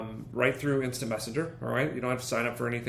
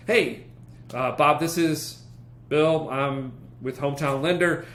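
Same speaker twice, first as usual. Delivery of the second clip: friendly caller. Shown as a demonstration. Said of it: "get a response".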